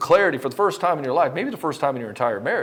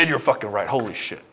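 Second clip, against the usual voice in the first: lower, beaten admission; defeated returning client; 4 semitones lower than usual. Retold or imitated. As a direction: confess you were wrong, deflated.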